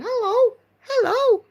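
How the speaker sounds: high-pitched, sing-out hellos; silly repeated hello. Acted. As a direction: chirp hello over and over, high and a bit loud. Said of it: "just sitting there in a Minnie ... going".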